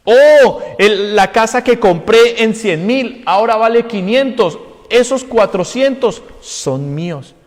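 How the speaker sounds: greedy glee; gloating owner. Retold or imitated. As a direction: crow over the profit. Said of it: "Y dice".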